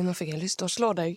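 half-laughed mock threat, quick; fast, giggly fake threat; laughing threat. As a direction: joke the threat through a laugh. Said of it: "Jeg holdt på å si".

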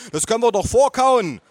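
high, loud motherly suggestion; mother calling out. Acted. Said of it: "rief meine Mutter".

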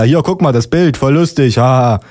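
acted, tickled policeman; amused calling out. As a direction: call a colleague over to share the joke. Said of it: "ruft er".

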